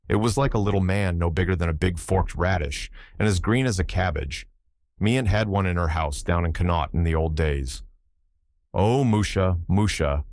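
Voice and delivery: put-on old Irish seaman spinning a yarn; Irish sailor accent. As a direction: tell it in a thick Irish brogue. Button tells fairy tale.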